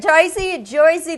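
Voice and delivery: Jersey said as Joisey with a New Jersey accent. Shown as a demonstration. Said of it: "they talk like this".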